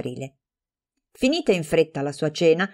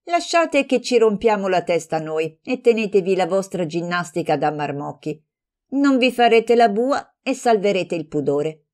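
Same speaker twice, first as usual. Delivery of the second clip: careless mockery; 3 semitones higher than usual. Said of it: "rispose con trascuranza".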